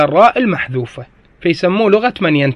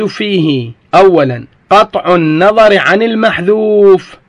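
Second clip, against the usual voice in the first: slow, measured classical Arabic recitation; formal text reading; slower than usual. Real, not acted. Teacher reading the grammar text to students, slow formal reading. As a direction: read it out slowly with full case endings. Reads the grammar book aloud.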